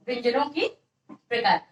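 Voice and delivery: heading read out in separated pieces; dictating. Real, not acted. Teacher giving students a heading to write, dictating. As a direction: dictate it with a pause before the last word.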